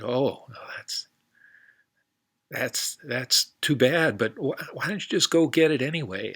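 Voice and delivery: lightly voiced eager cowboy. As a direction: speak up like a friendly cowboy. Cowboy character's lines.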